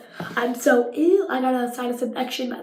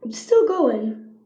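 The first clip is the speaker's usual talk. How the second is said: slow, stretched and a little louder; drawn-out excited; 4 semitones higher, 4 dB louder, slower than usual. Real, not acted. Telling viewers the squishy is still rising, slow and excited. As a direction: savor each word as it keeps rising.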